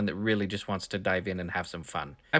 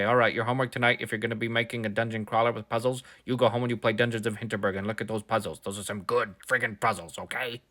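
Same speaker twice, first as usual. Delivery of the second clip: professor voice. Pretend. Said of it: "That's my professor voice".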